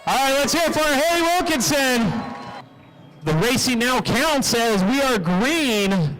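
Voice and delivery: projected announcer delivery with stretched key words; track announcer call. Real, not acted. Announcer starting the demolition derby in the rain, projected play-by-play. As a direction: send the field off with a drawn-out call.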